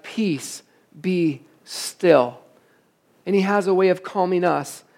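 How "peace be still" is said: soft spoken calm. Retold or imitated. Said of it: "he speaks those words over our life".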